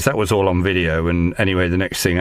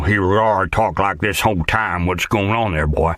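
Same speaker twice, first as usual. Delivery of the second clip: West Virginian accent. Shown as a demonstration. Auditioning actor shows his West Virginian accent to the casting director. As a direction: slip into a casual West Virginian accent for the camera. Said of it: "do a West Virginian accent".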